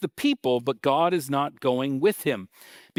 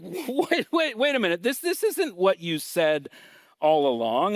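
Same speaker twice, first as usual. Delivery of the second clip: higher, alarmed and hurried protest; freaking out; 6 semitones higher than usual. Retold or imitated. Moses freaking out as God backs away, alarmed. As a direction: stop God mid-sentence in alarm. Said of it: "Moses kind of freaks out".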